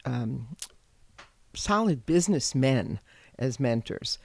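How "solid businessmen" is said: "businessmen" with weight on the final "men"; stress on MEN. Real, not acted. Guest describing her early mentors, stress on "men" in "businessmen". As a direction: lean on "men" at the end of "businessmen". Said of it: "I emphasize the word men".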